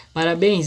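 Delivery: "Parabéns" with weight on final BENS; stress on BENS. Shown as a demonstration. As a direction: lean on the last syllable of "Parabéns". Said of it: "bens é a, ela é a sílaba mais forte". ("Parabéns" com ênfase em BENS)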